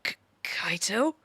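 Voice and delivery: slow, worried, breathy whisper. Acted. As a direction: whisper his name with concern. Worried whisper to a hurt friend.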